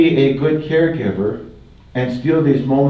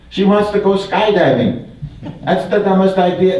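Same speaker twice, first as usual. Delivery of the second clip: laughing; 5 semitones higher than usual. Real, not acted. Laughing about skydiving wish.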